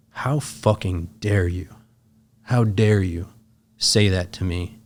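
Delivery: slow, measured outrage; restrained, hurt anger in retelling; retold indignation. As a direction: weigh each word of the accusation. Retold confrontation after dog story.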